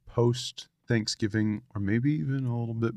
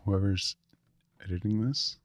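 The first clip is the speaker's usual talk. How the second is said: whispering. Real, not acted. Asks editor aside, whispered.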